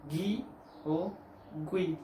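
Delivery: "gui" said as gee, hard g with ee; "gui" with a hard g and no u sound. Shown as a demonstration. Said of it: "sí tiene sonido de".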